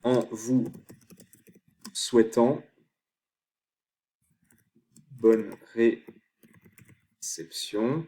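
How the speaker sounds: spaced out word by word; dictating while typing. Real, not acted. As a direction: leave long gaps as you type each word. Dictating email sign-off while typing.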